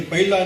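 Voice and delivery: ਪਹਿਲਾ as pai-la with a gliding vowel; wrong pronunciation. Shown as a demonstration. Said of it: "ਨਹੀਂ ਕਹਿਣਾ".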